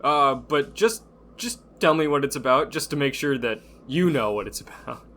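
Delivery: lightly voiced guy pretending he knows Letterkenny; mock know-it-all. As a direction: fake it like you've seen the show. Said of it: "You were that guy?".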